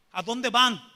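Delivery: loud, forceful imitated demand. Old man with a machete demanding their destination, very forceful. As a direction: demand an answer at full voice, acting the challenger. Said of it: "Muy fuerte y con el machete".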